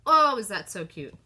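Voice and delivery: excited. Real, not acted. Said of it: "I'm very excited".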